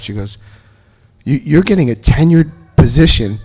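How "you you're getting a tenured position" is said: incredulous wife. Retold or imitated. Wife's disbelief at his decision.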